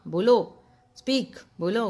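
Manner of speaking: a loud sharp call of बोलो; demanding speak. Shown as a demonstration. Teacher acting out demanding a reply, loud call. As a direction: call out बोलो to get an answer.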